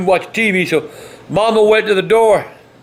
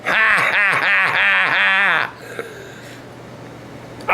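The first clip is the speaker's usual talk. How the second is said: mocking laugh; 4 dB quieter, much slower than usual. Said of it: "He laughing".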